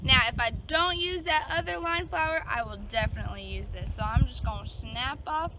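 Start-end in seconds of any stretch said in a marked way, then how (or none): 3.9-5.5 a light Southern accent. Real, not acted. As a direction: let a hint of a Georgia accent slip. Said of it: "there goes my accent again".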